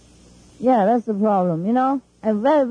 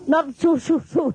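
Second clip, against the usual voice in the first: shooing demo; 4 semitones higher than usual. Shown as a demonstration. Showing the guests how she shooed, laughing. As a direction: wave them off again, half laughing. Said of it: "like this".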